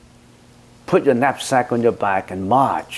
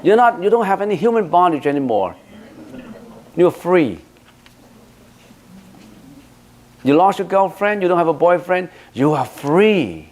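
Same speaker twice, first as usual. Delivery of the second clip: excited congratulations; 8 semitones higher than usual. Retold or imitated. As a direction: cheer her on like it's wonderful news. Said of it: "I said".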